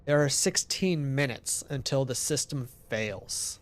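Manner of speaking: even, measured farewell message; solemn game narration. Acted. Narrator making peace as the system fails, solemn read-aloud.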